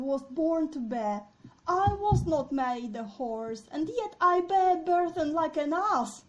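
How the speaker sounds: loud, impassioned stage declamation; declaiming king. Acted. Deposed king begs the horse's forgiveness, declaiming loudly. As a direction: proclaim it theatrically, swelling on the last line. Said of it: "then he's like".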